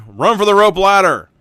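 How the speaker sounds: shouted urgent command, loud and high; Indy. A narrator's reading. Indy sending companions to the rope ladder, shouting. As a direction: yell it as an escape order. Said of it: "shouts Indy".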